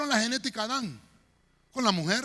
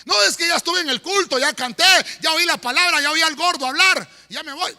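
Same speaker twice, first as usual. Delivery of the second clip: higher, louder mock excuse; departing churchgoer; 6 semitones higher, 6 dB louder than usual. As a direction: play the bored churchgoer. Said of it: "la gente se empieza a ir". (feligrés que se va con excusas)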